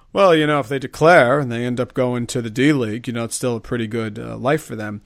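know-it-all voice. Retold or imitated. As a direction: talk down like you know it all. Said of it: "like, I know it all voice that you're using".

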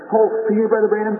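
put-on a sick girl calling out anxiously; nervous girl. Sick girl greets the preacher, pleading high.

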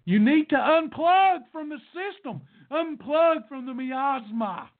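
exhorting the crowd, slowing at the end; impassioned plea. Real, not acted. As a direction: urge them hard, pitched high. Urgent plea against the system.

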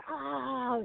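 high mock scream, held back in volume; drawn-out, high retold cry; imitated scream. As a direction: re-enact a long scream without full force. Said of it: "screaming. I'm like".

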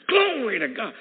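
high, loud cry of praise; re-enacted shout of worship. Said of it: "And I'm shouting".

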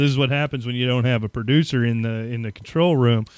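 panting after a run from the studio; out of breath. Real, not acted. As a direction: talk while catching your breath. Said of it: "That's why I'm out of breath".

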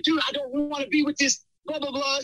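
high-pitched mock rant at normal volume; retold flipping out. Venting to best friend about girlfriend, flipping out. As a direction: imitate yourself venting to a buddy. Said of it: "I'm, like, flipping out".

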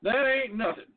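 "That ain't nothing" pushed up high with a hick twang; redneck voice retry. Retold or imitated. Host retries the redneck line in a mock accent. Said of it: "I don't even know how to do a redneck voice".

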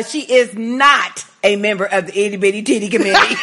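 fast, giggly teasing line; laughing joke. Real, not acted. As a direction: rush it out through giggles. Joking about listener's figure.

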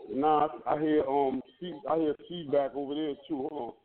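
muffled, echoing like a bathroom; boomy tiled-room echo on the line. Real, not acted. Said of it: "you sound like you in the bathroom".

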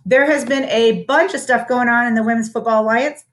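talking between sips of soda; sipping soda while speaking; drinking soda. Real, not acted. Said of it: "I'm drinking my soda".

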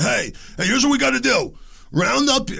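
hammed-up ringleader calling the crowd together; mock ringleader call. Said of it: "they're like".

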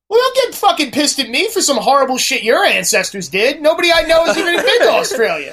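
high, exasperated retelling of a comeback; indignant comeback. Retold or imitated. Retelling his indignant comeback to her.

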